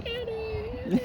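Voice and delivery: high drawn-out call of the name; mock high-pitched shout of a name. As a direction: call out like a coworker across the plant. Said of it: "and he's like".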